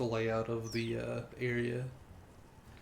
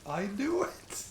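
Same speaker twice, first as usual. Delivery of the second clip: high, slow triumphant cry; excited exclamation; 9 semitones higher, 5 dB louder, slower than usual. Real, not acted. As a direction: crow it out, delighted. Triumphant outburst while playing.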